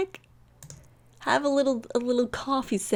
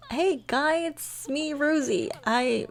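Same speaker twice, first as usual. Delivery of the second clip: slightly higher, hesitant hello; a touch of acting, higher pitched opener; lightly acted phone greeting; 4 semitones higher, slower than usual. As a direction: play a tentative caller announcing herself. Voicing Rosie phoning Guy.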